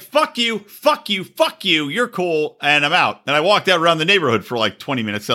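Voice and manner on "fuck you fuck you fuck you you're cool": raised, jabbing fuck yous at family; imitating his drunk self telling everyone off; mock drunken rant. Son at family party yells at relatives, mock drunken rant. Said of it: "So I'm like".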